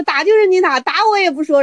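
high, dare-you reply; defiant refusal. Acted. Teacher defying the student, high and defiant. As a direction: dare him to hit you.

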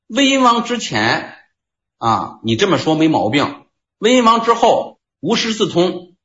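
voicing the disciple. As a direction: lift the voice high to play the corrector.

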